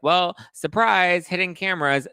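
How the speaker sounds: high, slow sing-song surprise; spring the hidden camera reveal on her; mock reveal. Andy revealing the hidden cameras to Bethany, mock sing-song.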